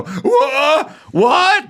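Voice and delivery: high, shrieked mock disbelief; mock shock. Mocking women stunned by Homan's answer, shrieking. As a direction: squeal it out, scandalised. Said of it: "the fucking women go".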